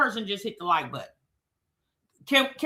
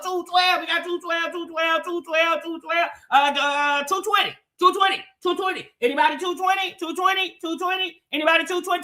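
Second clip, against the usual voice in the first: auctioneer; 2 semitones higher than usual. Pretend. Host begging chat for likes, light mock auction call. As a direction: rattle off the bid numbers like a playful auctioneer. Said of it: "I sound like I'm at an auction".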